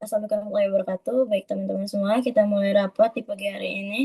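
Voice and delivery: rushed, fast and flat with no melody; no intonation. Shown as a demonstration. Teacher shows students a flat, hurried meeting opening. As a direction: rattle it off in one flat tone. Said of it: "misalnya nggak ada nadanya".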